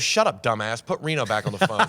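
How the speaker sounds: wife snapping at a prank caller; mock annoyed wife. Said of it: "And she goes".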